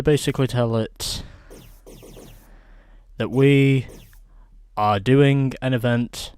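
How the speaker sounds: put-on Australian accent. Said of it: "This is just me doing my, uh, Australian accent".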